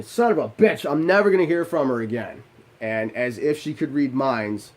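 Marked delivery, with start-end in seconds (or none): 0.0-2.4 frustrated outburst. Retold or imitated. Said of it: "So I'm thinking".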